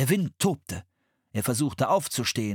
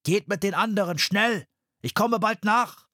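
higher, pressing, slowing at the end; urgent Henry; 8 semitones higher than usual. A narrator's reading. Henry urges the children to hurry below. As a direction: push them to go, now.

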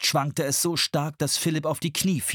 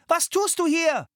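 much higher, louder; shouted; 4 dB louder than usual. A narrator's reading. Anne shouts at Philipp over the storm. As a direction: yell it into the storm. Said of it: "schrie sie".

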